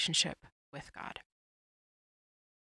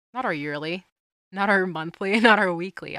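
each "not our" louder than the last, ending in a laugh; rising emphasis; 9 dB louder than usual. Real, not acted. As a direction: build it up, almost laughing at the idea. Building list against daily bread.

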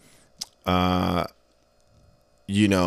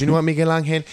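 offended mom; 5 semitones higher than usual. Retold or imitated. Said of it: "She goes".

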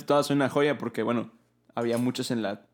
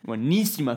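"Buenísima" with the accented í leaned on; stress on the Í. Shown as a demonstration. Co-host praising a song, stressing the í in "Buenísima". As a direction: punch the í in "Buenísima". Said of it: "con acento en la I".

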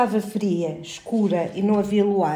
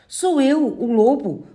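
wolf voice; 6 semitones higher, slower than usual. A narrator's reading. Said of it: "respondeu do outro lado uma voz de lobo".

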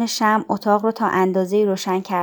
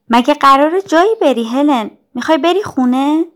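higher, louder worried questions; anxious questioning; 6 semitones higher, 6 dB louder than usual. A narrator's reading. Jane asks her sick friend Helen, anxious and puzzled. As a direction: ask in rising, puzzled alarm.

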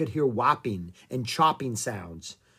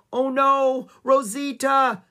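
high, loud cry of dismay; alarmed shout; 12 semitones higher, 8 dB louder, slower than usual. A narrator's reading. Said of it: "Annie shouted".

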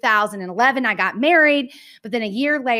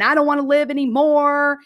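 emotional outburst; 5 semitones higher, 3 dB louder than usual. Retold or imitated. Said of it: "a basket case and very emotional".

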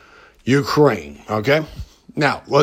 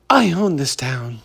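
understated smug tough-guy line; lightly voiced Hollywood poser; Hollywood impression; 3 dB quieter than usual. Host imitating an ex-bandmate's Hollywood talk, mild mock swagger. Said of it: "my Hollywood impression".

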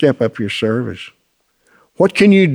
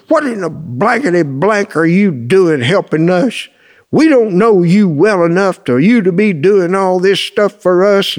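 higher-pitched indignant demand, acted; mock angry outburst; 5 semitones higher than usual. Daddy slaps the table and challenges the helper, mock angry outburst. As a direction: imitate a father blowing up at a visitor. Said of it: "his daddy slapped the table and said".

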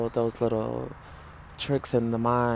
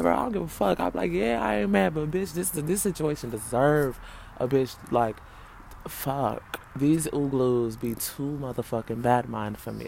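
high, loud, heated venting; exasperated rant; 3 semitones higher, 3 dB louder than usual. Retold or imitated. Talking herself down from anger, high and loud. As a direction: blow off steam at the nasty situation.

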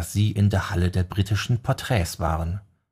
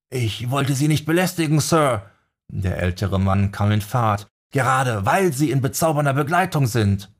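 aufgeregter Fan; 5 semitones higher than usual. Acted. Älterer Fan redet aufgeregt.

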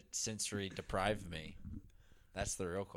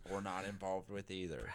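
suggestive whisper; 6 dB quieter than usual. Real, not acted. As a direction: whisper it like a dirty secret. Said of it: "That sounded dirty".

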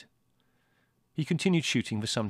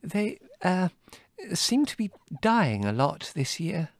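high, hesitant motherly voice; weak, flustered; 9 semitones higher, 3 dB louder, slower than usual. A narrator's reading. Mother feebly excusing the dead sparrows, weakly. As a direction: falter weakly, higher and drawn out. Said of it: "Mother pointed out weakly".

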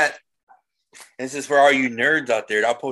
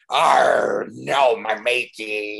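pirate voice; much slower than usual. Pretend. Joking about dressing as pirate.

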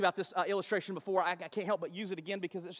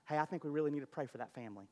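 quick, hushed, lower fake concern; mock prayer request; 5 semitones lower, 6 dB quieter, faster than usual. Church member dressing up gossip as prayer, hushed. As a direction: rush it softly like sharing a secret.

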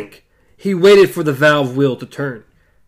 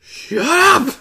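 high sharp yell; shouted; 9 semitones higher than usual. A narrator's reading. Gasher silencing Hoots, a high shout. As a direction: snap him silent with a yell. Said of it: "Gasher shouted".

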